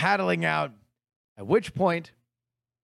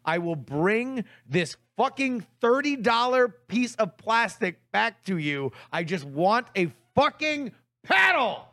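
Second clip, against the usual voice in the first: retold exasperation, emphatic and pitched up; exasperated demand; 4 semitones higher than usual. Customer begging teen staff for a paddle, retold exasperation. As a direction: insist word by word, fed up.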